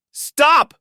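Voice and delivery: a huge, high furious shout; raging shout. A narrator's reading. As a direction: explode on the word in rage. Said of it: "I shouted".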